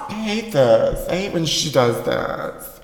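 spiteful grumbling alone at home; bitter muttering to herself. Acted. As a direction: seethe and plot under your breath. Secret tape sketch, S0 talking alone.

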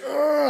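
high mock groan; imitated groan. Injured man answering the driver, mock groan.

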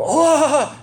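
sudden high, loud "Oh!"; shocked pig herder's "Oh!"; startled gasp. Retold or imitated. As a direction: jump up in alarm at the loss. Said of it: "They're, like, freaking out".

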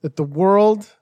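lightly hammed-up proclamation; mock prophet. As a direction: announce it like a seer. Performs a doomsday prophet's premonition.

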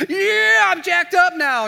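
very high, loud hyped-up yell; jacked up. Acted. Friend after one sip of coffee, wildly jacked up. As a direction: explode into manic caffeinated shouting. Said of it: "Mister Hyde just happened right here".

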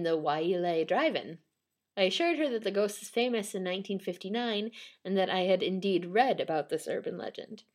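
measured read from a written account; storytelling read-aloud. Real, not acted. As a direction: read it out like a ghost-story report.

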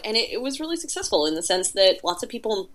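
hiccuping mid-sentence; talking through hiccups. Real, not acted. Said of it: "excuse me, I have the hiccups".

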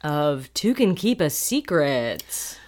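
slow, drawn-out show title; announcer voice. Acted. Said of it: "it sounds so professional".

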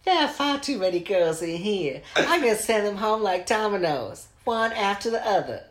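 high, laughing country bumpkin squeal; Heidi impression. Host mimics Heidi in the closet, high and giggly. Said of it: "this is why I didn't do that impression".

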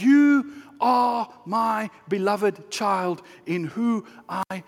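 very slow, spaced-out words, fully voiced; stately, drawn-out blessing; Father's tender declaration. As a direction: declare it slowly, easing off at the end. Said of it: "that voice is a whisper".

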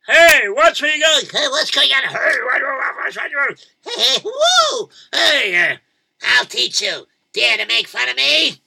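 high, loud crazed rider; wild excited yelling. Acted. Old man riding wildly through town, shouting high and loud. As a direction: whoop and yell like a madman on a bolting horse.

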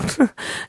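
short breathy giggle; brief puff of amusement, imitating him; imitated giggle. Retelling the barman's reply to Sam, imitated giggle. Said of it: "the guy giggles and goes".

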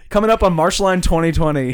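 playful newsmagazine teaser; mock TV announcer. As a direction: announce it like a TV host, hammed up.

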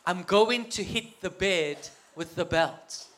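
low, slow, hushed confiding voice; soft conspiratorial whisper. Retold or imitated. Dad secretly tells his son the plan, hushed. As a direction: speak softly and slowly, letting the child in on a plot. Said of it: "he whispered softly to me".

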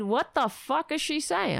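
mock outraged what-the-fuck; exasperated outburst. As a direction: blurt it out in disbelief, laughing. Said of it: "I didn't say it like that".

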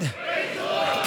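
soft, slow whisper of praise the Lord; hushed whisper before the shout. Shown as a demonstration. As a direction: breathe it out as a hush. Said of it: "praised God with a loud voice".

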